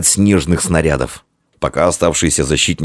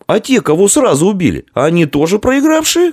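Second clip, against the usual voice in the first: high, raised challenge; shouted protest; 14 semitones higher than usual. A narrator's reading. Ambrose shouts up from his snow trap at the commander, raised challenge. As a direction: call out the unfairness. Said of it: "крикнул ему Амвросий".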